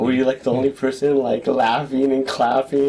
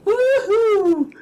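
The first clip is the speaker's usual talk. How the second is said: radio cheer. Pretend.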